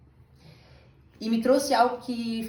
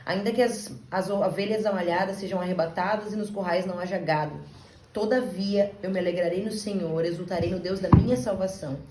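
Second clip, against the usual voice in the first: scripture reading; 3 dB louder than usual. Acted. Preacher reading Habakkuk to the church, solemn. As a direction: read the verses like a sermon text. Reads Habakkuk over music.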